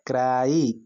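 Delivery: क्राई with a lengthened vowel; teacher's drawn-out क्राई; model pronunciation. Shown as a demonstration. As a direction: lead a repeat-after-me क्राई, both sounds clear. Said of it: "बोलिए आप मेरे साथ".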